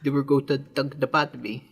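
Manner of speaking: mock Boston accent; put-on Boston voice. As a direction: play along in a fake Boston accent. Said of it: "the hardest possible Boston accent".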